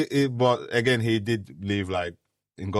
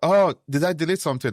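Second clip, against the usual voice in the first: quoting colleague; 7 semitones higher, 6 dB louder, faster than usual. Retold or imitated. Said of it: "Van was like".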